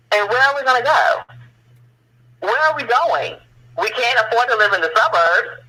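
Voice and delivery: high, incredulous appeal; exasperated rhetorical questioning. Real, not acted. Guest asking where displaced Black residents can go, exasperated. Rhetorical plea over being pushed out.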